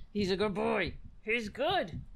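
cooing, lilting praise; doting pet talk. Real, not acted. Host showing off the pet, doting. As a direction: fuss fondly over a pet.

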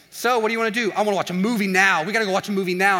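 hyped-up insistence, played for laughs; aggressive. Jacked-up friend demanding a movie, aggressive. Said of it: "someone's just aggressive all the time".

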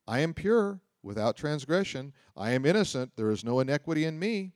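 mock Job boasting of his innocence; self-righteous recital. Shown as a demonstration. Preacher mimics Job boasting to his friends, proudly. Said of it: "apparently was recounting this".

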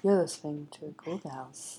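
low, measured public radio announcer; radio host voice. Acted. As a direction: read it like a serious radio host. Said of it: "suddenly we're on N P R".

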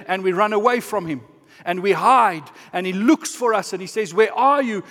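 forceful, driving sermon delivery; impassioned preaching. Real, not acted. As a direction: preach it with urgency.

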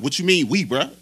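mildly confrontational mock of the bellman; imitated aggressive challenge. Bellman challenges delivery driver over "we", mildly aggressive imitation. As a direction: push the question harder, challenging him. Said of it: "he started getting aggressive".

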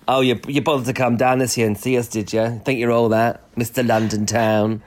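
lightly imitated Cornish relatives' accent; a hint of a Cornwall accent, needling; non-southern accent. Cornish relatives teasing the one back from London, in a lightly put-on Cornwall accent. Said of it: "they don't speak in a southern accent".

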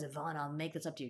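mock Toby apology. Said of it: "when he says".

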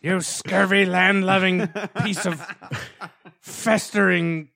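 pirate voice. Pretend. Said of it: "shanty pirate voice".

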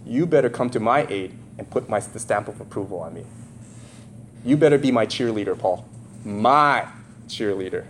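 low, soft insistent demand; softly demanding patron voice; quiet demand. Acted. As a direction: press him quietly to back you. Corinthians demanding Paul's loyalty.

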